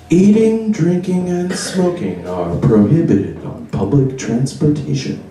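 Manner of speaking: slow, even automated announcement voice; robot lady voice. Retold or imitated. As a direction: read it like a bus PA robot. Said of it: "like, lady robot voice that comes on".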